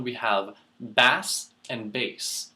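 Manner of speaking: bass and bass said slowly, first like base then like the fish; two pronunciations. Shown as a demonstration. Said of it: "Further down".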